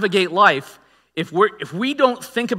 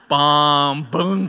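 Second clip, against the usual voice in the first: mock crash noises; 2 semitones lower, 4 dB louder than usual. Mimes his joke crashing.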